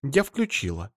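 wife offended by his insult, a hurt reply. Acted. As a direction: say it huffily, as if wronged. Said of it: "обиделась Эльза".

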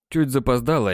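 plain reading voice

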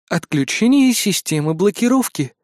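lightly sung cool female system announcement; a hint of a sing-song computer voice. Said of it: "пропел прохладный женский голос".

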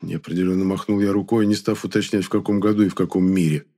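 plain reading voice

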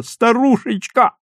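high, drawn-out joyful yell; slow, high-pitched holler; yelling at full throat. A narrator's reading. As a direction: stretch each word into a loud cry. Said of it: "заорал во всё горло".

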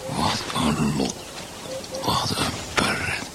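slow, soft, sour irony; hurt, muted mockery; bitter sarcasm. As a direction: let the sarcasm sink, quietly and slowly. Bitter remark on jokes about him.

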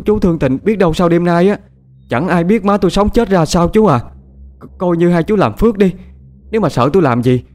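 desperate pleading. Acted. Begging the nurses.

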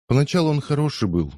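a hint of a sob in it; understated weepy defence; sobbing. A narrator's reading. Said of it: "всклипнула Салли".

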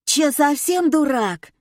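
high, drawn-out squawking wife; screechy contralto. A narrator's reading. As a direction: scold him in a screechy high voice. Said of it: "прозвучало на заднем фоне визгливое контральто". (визгливое контральто)

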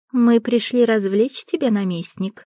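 high, coy purring seductress. Acted. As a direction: purr it like a flirtatious fairy. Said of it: "промурлыкала одна".

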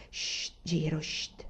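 put-on quietly soothing the boy; soft shushing murmur. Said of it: "mormorò Aiwan". (mormorio sommesso per calmare il bimbo)

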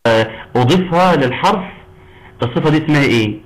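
usual speaking voice

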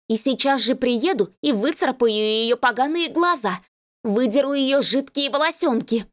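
put-on a jealous girlfriend interrogating him; jealous woman. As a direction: press him with jealous guesses.

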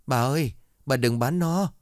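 high, lightly voiced whimpering plea; a child pleading on the verge of tears, mildly acted. Child begs grandma not to sell the dog, whimpering. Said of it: "mếu máo".

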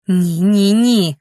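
put-on loud, drunken refusal; defiant drunken shouts; shouting no. A narrator's reading. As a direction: yell it out, pounding the sofa. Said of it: "кричати".

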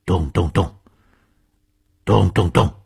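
spoken knocks in threes, second set harder; imitated door pounding. A narrator's reading. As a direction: voice fist thumps on a door, building. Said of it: "用他的小拳头在门上擂起来". (模仿拳头擂门的咚咚声)

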